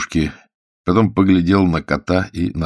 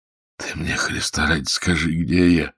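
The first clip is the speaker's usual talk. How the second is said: weak hungover pleading. Acted. Prisoner begs the warder to say where he is, feebly. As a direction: plead feebly, dragging the last words.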